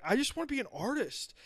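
put-on high, whiny teen voice; whiny kid. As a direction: whine like a moody artist kid. Young Hitler whining.

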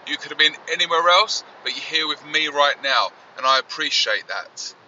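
crackly distorted audio from the car; distorted car phone line; distorted noise. Real, not acted. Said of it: "distorted noise".

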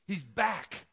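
"He's back" said bright and eager; excited news. Acted. Servant breaking the news to the older brother, eager. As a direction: tease out the news "He's back" with a rising lift.

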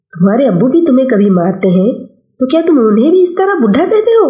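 mother scolding, rising high on the question. Acted. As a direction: scold him with a pointed question. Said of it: "امی ڈانٹتے ہوئے پوچھ رہی تھی".

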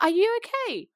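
high-pitched indignant question; retold incredulous challenge. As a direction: throw it back at him in disbelief. Acts out her incredulous comeback.

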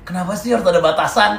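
retold drunken lament. Friend imitates his drunk mate crying at the sky, mock lament. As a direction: imitate a tearful drunk's plea. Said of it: "Tadi ngomong".

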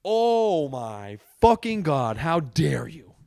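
an exasperated, emphatic rant; indignant rant. Real, not acted. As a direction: spit it out in disbelief. Ranting about the door.

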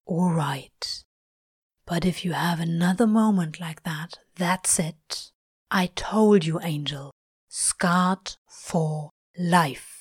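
lightly voiced husky Crowley; Crowley, grudging. A narrator's reading. Crowley relenting to the angel, grudging. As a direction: give in with a warning.

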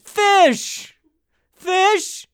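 put-on high, loud cracked old-man call; senile fisherman. Old fisherman calling his name, loud and high. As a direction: croak it like a confused grandpa. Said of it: "Sound like a senile fisherman".

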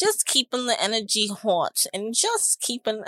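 put-on Jersey accent breaking into laughter. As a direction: keep up a Godfather-style Jersey accent. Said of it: "What, what accent was that?".

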